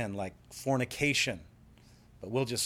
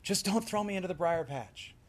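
Brer Rabbit; 6 semitones higher than usual. Acted. Rabbit bargains over drowning, mock pleading. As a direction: plead as a crafty trickster. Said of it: "And the rabbit says".

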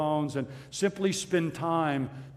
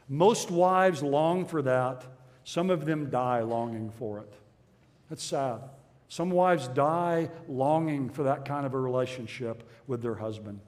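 sobering, sad; 3 semitones lower than usual. Real, not acted. Reads a sobering, sad quote.

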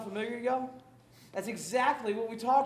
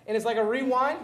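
rewind effect. Shown as a demonstration. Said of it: "You like how I did that?".

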